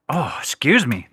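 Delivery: soft hiccup interruption; hiccuping between words. Real, not acted. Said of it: "As I combat through these hiccups".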